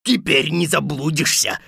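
mildly gloating wolf; a touch of a mocking chuckle; gloating wolf laughter. Wolf to captured Tom Thumb, gloating. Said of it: "захохотал волк".

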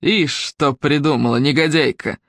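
slow spiteful villain; hoarse, spiteful Fildrom. Acted. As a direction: sneer it at the hiding girl. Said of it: "хриплый злобный голос Фильдрома".

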